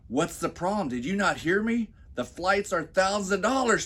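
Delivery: high, pushy repeat of her complaint; lightly voiced exasperated wife; mock wife. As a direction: nag him, voice up high. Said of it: "Stacy says".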